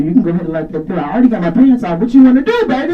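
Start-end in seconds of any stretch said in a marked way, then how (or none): 2.0-2.9 mock flirt. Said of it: "And I'm like".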